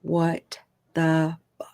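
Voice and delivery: hushed unvoiced disbelief, slow; whispered curse. Narrator in bed cursing under her breath, slowly whispered. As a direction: whisper it so the roommate can't hear. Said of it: "I'm like".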